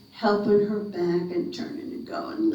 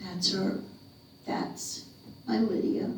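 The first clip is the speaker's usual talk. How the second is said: quiet tears; 6 dB quieter than usual. Acted. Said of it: "cried silent tears again".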